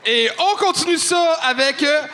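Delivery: announcer intro. Real, not acted. Host introducing next comic.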